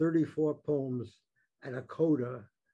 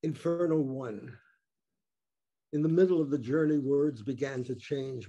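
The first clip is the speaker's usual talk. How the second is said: louder, measured poetry reading voice; poem reading; 4 dB louder than usual. Acted. Poet reading his book of infernos to an audience, declaiming. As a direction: declaim each poem to the listeners.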